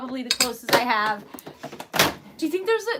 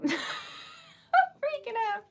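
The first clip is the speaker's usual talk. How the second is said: higher, slow, laughing through tears; laugh-crying; 12 semitones higher, 4 dB quieter, much slower than usual. Real, not acted. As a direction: giggle it out, overwhelmed.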